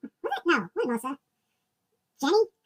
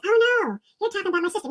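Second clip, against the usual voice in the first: woman's surprised reply; 4 semitones higher, 4 dB louder than usual. Retold or imitated. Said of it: "And she goes".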